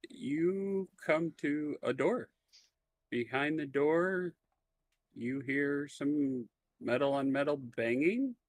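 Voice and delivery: slow, deliberate scene-setting; game master narration. Acted. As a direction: draw the players toward the door, measured pace.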